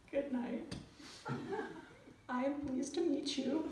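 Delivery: stiff phrasebook tourist. Retold or imitated. Phrasebook Italian farewell.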